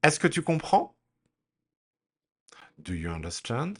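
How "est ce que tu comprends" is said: comprends rising high and louder at end. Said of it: "repeat after me".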